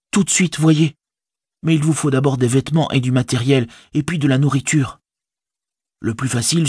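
high, busy hobbit servant; practical Sam. A narrator's reading. Servant planning his master's disguise, high and practical.

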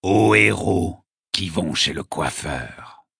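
slow, mock-grand declamation; proposing a toast. A narrator's reading. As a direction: stretch it out with bardic pomp. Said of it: "en train de porter un toast".

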